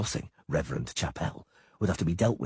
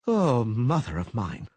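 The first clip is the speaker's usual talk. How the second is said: timid whimper; 6 semitones higher, 4 dB louder, slower than usual. A narrator's reading. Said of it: "Dandelion whimpered timidly".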